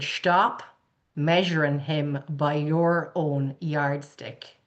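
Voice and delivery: put-on slow, measured country Irish accent. Dad advising his daughter, slow country Irish accent. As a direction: imitate a country Irishman, drawn out. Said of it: "he talked in a real country Irish accent".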